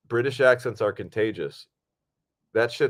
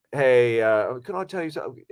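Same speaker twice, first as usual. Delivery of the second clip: put-on British accent. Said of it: "I go up to Cassandra and I tell her".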